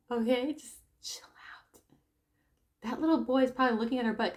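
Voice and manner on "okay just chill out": slow whispered chill out; hushed calming. Real, not acted. Telling the outraged mother to calm down, slow whisper. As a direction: soothe her in a slow whisper. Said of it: "telling the mother to calm".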